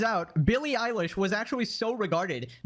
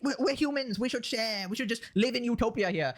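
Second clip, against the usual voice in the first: mocking whiny idealist, pitched up; imitating an idealist, higher; mock leftist voice; 3 semitones higher than usual. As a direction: sneer it like a naive utopian. Mocking the open-borders argument.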